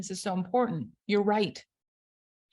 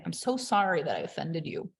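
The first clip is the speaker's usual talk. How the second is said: sincere apology; 5 semitones lower than usual. Pretend. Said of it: "Same thing".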